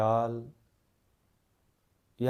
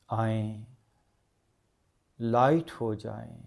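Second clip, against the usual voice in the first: guided meditation. Acted. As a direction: guide them gently into stillness, phrase by phrase. Returns to guiding the meditation. (धीमी, ठहरी हुई ध्यान की आवाज़)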